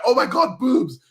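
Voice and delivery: loud, high, overexcited newbie; excited gasp. Retold or imitated. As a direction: blurt it out like a first-time fan. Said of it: "you're like".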